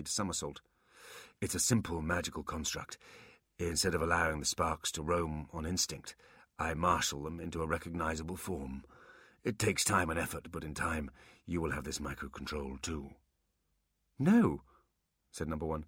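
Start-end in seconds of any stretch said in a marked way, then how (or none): 1.4-13.1 put-on old warlock voice. Old warlock Quan explains. 14.2-14.6 high, firm no; high insistent demon voice. Acted. Number one corrects Quan.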